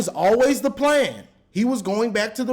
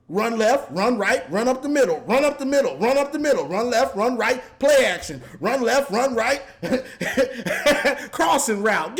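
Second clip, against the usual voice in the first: singsong run left run right; rattling off easy plays mockingly; sarcastic play-by-play recital; mock play calling. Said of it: "I can call them plays".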